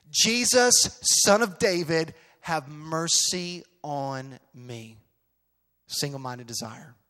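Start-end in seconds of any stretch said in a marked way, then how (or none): 0.1-5.0 loud, high cry for attention, stretched at the end; calling out. Acted. Bartimaeus calling to Jesus for mercy, loud pleading call. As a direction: shout a desperate plea, then slow down.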